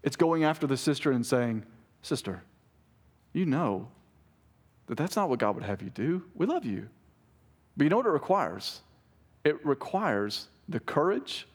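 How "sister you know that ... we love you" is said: soft, gentle admonishing; quiet, caring appeal; loving confrontation. Acted. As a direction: correct her tenderly, with pauses.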